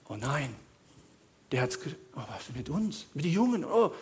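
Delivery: soft, low mock moaning; mock despair. Preacher mocks panicked worrying about pensions, quiet moaning. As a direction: moan softly in pretend dread. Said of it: "Ich sag dann nicht".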